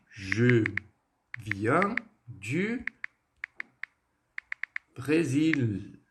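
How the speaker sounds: very slow, long pauses between chunks; practice together. Shown as a demonstration. Teacher practising the structure with pupils, very slow broken-up model. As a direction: break it up so learners can repeat along. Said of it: "vamos praticar junto essa estrutura".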